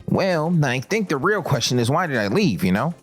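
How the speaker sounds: lightly voiced dweeb, tidy and proper; dweeby voice. The speaker explaining himself to Oso, dweeby put-on voice. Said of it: "why you sound like that? All dweebed out".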